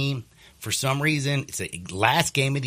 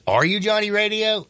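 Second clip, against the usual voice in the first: retold stranger; 11 semitones higher, 4 dB louder than usual. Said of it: "He goes".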